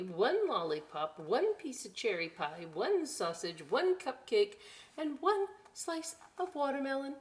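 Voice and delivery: sing-song list of foods read aloud; lively storybook list; reading to children. Acted. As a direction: tick off each treat for the kids. Reads picture book aloud.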